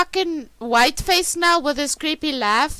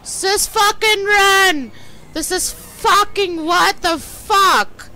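being chased; 5 semitones higher, 4 dB louder than usual. Real, not acted. Something chasing in game.

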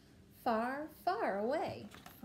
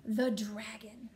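bellowing; 7 dB louder, much slower than usual. Acted. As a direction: bellow it, rising to a yell. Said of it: "bellowed the little princess".

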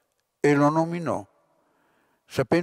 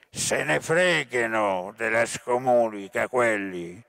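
almost calm shout; 3 semitones lower than usual. A narrator's reading. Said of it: "urlò quasi pacato".

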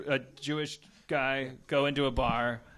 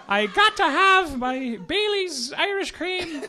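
high, slow line broken by laughter; he can't hold it together, laughing the order out; 14 semitones higher, 7 dB louder, slower than usual. Real, not acted. Cracking up while voicing the Irish guy in the joke.

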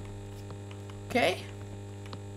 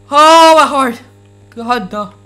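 shaken; 7 dB louder than usual. Real, not acted. After the scare.

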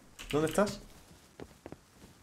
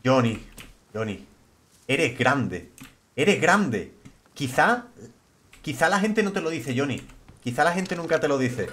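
lower, earnest motivational speech; mock sincere pep talk; 3 semitones lower than usual. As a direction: hype him up like a life coach, half joking.

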